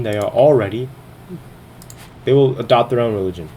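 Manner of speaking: breathless, rushing the words; talking while short of breath. Real, not acted. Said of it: "I'm getting out of breath".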